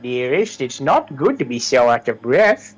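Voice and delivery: lightly voiced sweet witch. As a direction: coax like a fussing old witch. Witch offers a potion.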